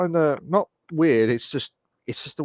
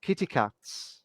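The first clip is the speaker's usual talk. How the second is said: softer British-accented "Kitty cats"; 5 dB quieter, slower than usual. Shown as a demonstration. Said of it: "British accent when they say kitty cats".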